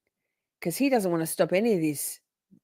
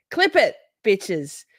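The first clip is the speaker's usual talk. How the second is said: slow gloating; 6 dB louder, much slower than usual. Real, not acted. Gloating to chat.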